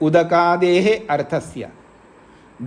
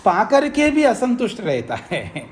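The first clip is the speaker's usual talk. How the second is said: said with a real light laugh, pitched higher; amused chuckle; 4 semitones higher than usual. Real, not acted. Teacher remarking on human discontent to students, amused chuckle. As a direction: chuckle through the words.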